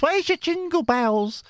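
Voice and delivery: high, slow mock of a commenter's jibe; mock heckler voice. Reading a cheeky comment out in a high, slow mock voice. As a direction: tease it back like the heckler. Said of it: "the bullying in the comments".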